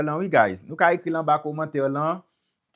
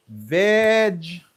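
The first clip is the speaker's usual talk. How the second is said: slow vegetable, VEDGE long and punched; stress on first syllable; 3 semitones higher, 4 dB louder than usual. Shown as a demonstration. Teacher applying the rule to a new word, first-syllable stress. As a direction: hold the start of vegetable, then drop "tuh-bowl". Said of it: "se vegetable".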